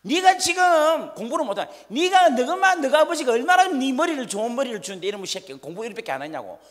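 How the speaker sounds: high, loud furious scolding; scolding parent. Retold or imitated. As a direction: yell at the child who wet himself. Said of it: "엄마 아버지는 뭐란가 하면".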